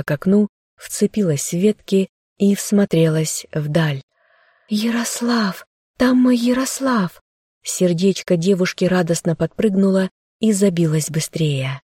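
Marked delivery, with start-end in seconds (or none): 4.7-7.2 high, excited calling out; joyful cry. Acted. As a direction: she sees him and lights up. Girl spots beloved from window.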